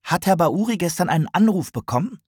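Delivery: high, breathless question; urgent, winded asking; a touch out of breath from running; panting. A narrator's reading. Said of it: "keuchte Tigani".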